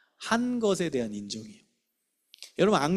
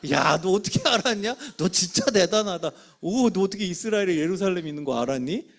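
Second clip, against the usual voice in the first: earnest amazement at a pupil; impressed teacher, acted out; sincere praise; 2 semitones higher, 5 dB louder than usual. Shown as a demonstration. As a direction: acknowledge the child for real, no teasing. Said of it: "약 올리지 마시고 진짜 인정해 주세요".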